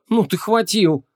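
high-pitched, incredulous snort; scoffing. A narrator's reading. Vanessa reacts to the mage's price, scoffing. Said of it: "фыркнула Вон".

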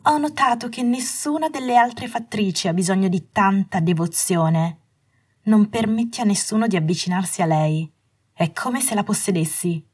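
a touch of scorn, faintly voiced woman; half-snorting reproach, lightly played; mild scornful huff. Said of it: "Lei quasi sbuffò".

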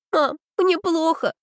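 high, slow, tearful plea; tearful sob, slow and high; sobbing into the phone. A narrator's reading. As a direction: choke the words out on a sob. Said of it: "всхлипнула я в трубку".

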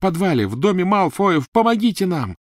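loud high desperate cry; shouting for help. Acted. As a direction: yell for help upstairs.

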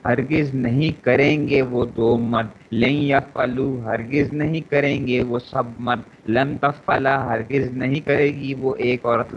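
teacher chants verb paradigm; conjugation recitation. Acted.

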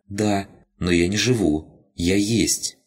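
a tiny odd spirit speaking simply; rabbit spirit voice. Acted.

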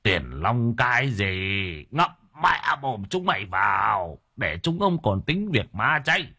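put-on old relative's stern angry rebuke; old clan elder scolding the children fighting over money. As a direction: tell the greedy brood off with contempt.

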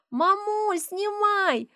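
put-on high little girl's urging; high child's urging; squeaky child. A narrator's reading. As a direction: squeak it at mum, tugging. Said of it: "пищит дочь".

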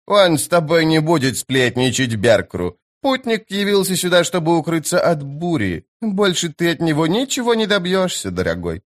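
high, eerie woman's voice; creepy merchant's wife. A narrator's reading. Жена торговца, жуткая женщина. (жуткая женщина, высокий голос)

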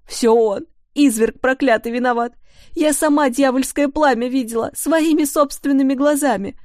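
loud, high, hysterical accusation; a grief-mad mother shouting at the whole kitchen; frenzied shouting. A narrator's reading. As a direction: hurl the blame out in a frenzy.

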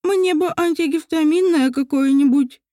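slurring with a swollen tongue. Acted. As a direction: struggle to get the words out. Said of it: "с трудом выговаривала слова".

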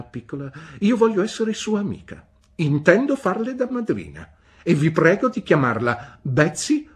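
high, loud, brusque "Bene?"; stern old aunt. A narrator's reading. Aunt Betsy demanding news from the mother, brusque. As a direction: demand an answer like a sharp old lady. Aunt declares herself godmother.

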